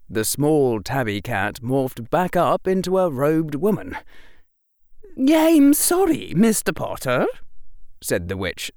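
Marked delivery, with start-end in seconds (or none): 5.2-7.3 sincere apology. A narrator's reading. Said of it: "sounding sincere".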